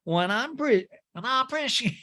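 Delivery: high nasal impression; pinched put-on voice, breaking off; mock voice through a plugged nose; Erica Jane. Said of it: "that Erica Jane imitation".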